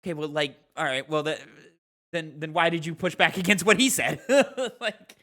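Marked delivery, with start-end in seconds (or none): 2.1-4.2 asked through real laughter; laughing question. Real, not acted. Calling out a friend's pushback, laughing as he asks. 4.2-4.8 high, bright real laugh; burst of laughter. Real, not acted. Laughing at a friend mid-debate, real laugh. Laughing at his own tease.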